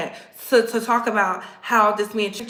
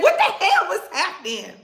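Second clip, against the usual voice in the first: high laughing disbelief; giggling in disbelief; 7 semitones higher than usual. Real, not acted. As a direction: laugh through the words. Laughing at the scene.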